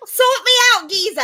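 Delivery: high, loud London streetwalker; Victorian prostitute. Shown as a demonstration. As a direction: call out like a comic old-time British prostitute. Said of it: "how one of those prostitutes would have sounded".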